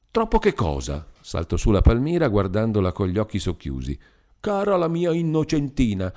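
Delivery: lightly ironic wife; Palmira, mocking. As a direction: needle the innocent friend. Palmira mocks Beatrice.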